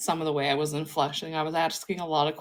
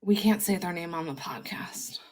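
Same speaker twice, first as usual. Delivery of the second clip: unvoiced conspiratorial whisper; 6 dB quieter than usual. Real, not acted. Host whispering about banned names, unvoiced. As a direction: whisper it like a secret.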